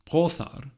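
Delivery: "Brothar" with an unvoiced th in the middle, as in "thin"; voiceless fricative. Shown as a demonstration. Lecturer giving the example for brother, "Brothar" with a voiceless th. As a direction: say "Brothar" carefully with a hissed, voiceless th. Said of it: "has a voiceless fricative".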